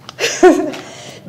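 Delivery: short embarrassed nervous laugh. Real, not acted. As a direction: laugh off the nerves. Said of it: "Sorry, I'm nervous".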